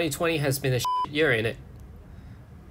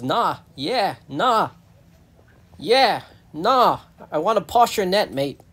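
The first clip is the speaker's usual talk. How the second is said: mock bickering; 5 semitones higher, 5 dB louder, slower than usual. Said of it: "And the hedgehog goes".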